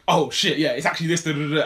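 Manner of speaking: half-acted delighted realisation; excited eureka. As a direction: retell the lyric click with mild excitement. He finally gets lyrics right.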